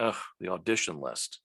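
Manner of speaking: a weary "Ugh" on the audition list; eye-rolling groan. Retold or imitated. Mike dismissing the audition list, eye-rolling groan. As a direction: roll your eyes as you say it. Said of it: "rolled his eyes and went".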